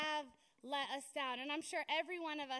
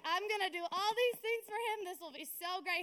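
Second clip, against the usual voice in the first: eager excitement; 4 semitones higher, 5 dB louder than usual. Retold or imitated. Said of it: "So I was like".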